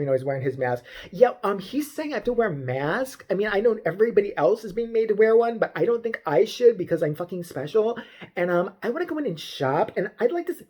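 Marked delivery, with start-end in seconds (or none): 1.1-10.6 lightly mimicked complaining customer; mildly hammed-up self-important shopper; mock entitled Karen. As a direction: whine to the manager in mock entitlement. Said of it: "All angry white bitches talk like this".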